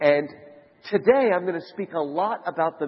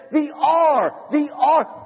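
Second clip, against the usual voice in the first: high-pitched wail of the distraught monk; screaming out; 9 semitones higher, much slower than usual. Acted. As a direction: wail it high, in comic anguish. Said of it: "Brother Andrew screams out".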